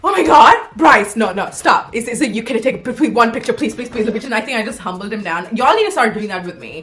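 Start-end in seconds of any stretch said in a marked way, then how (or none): 0.0-4.1 gushing fan begging Bryce for a picture; mock fan squeal. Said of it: "he wanted me to be like".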